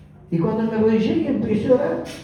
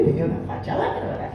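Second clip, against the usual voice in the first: held-back giggle over the words. Real, not acted. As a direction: chuckle it under your breath. Retelling his shabby look, laughing.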